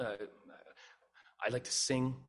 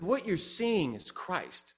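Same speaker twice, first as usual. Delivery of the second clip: very slow, stretched-out statement; emphatic repetition; 3 semitones higher, much slower than usual. Retold or imitated. Repeating it for a colleague who asked what, very slowly. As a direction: draw out every word for a puzzled listener.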